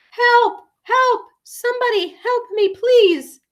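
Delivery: high, desperate call for help; cry for help. Acted. Ivy, hurt on the rock pile, cries for help. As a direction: plead to be found.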